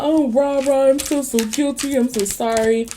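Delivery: high whiny fake apology; mock apology. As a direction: mimic his fake guilt. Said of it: "if he comes to you talking about".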